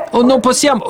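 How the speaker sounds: high pleading voice; begging him not to; pleading wife. Acted. Jochebed pleading with Amram, high pitched.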